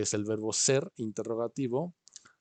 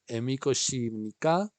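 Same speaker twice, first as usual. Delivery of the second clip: model phrase; 2 semitones higher, 3 dB louder than usual. Shown as a demonstration. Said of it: "Repiten esto".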